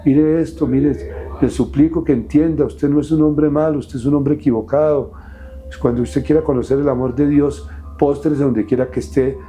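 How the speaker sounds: lightly voiced brother begging him to change; pleading priest brother.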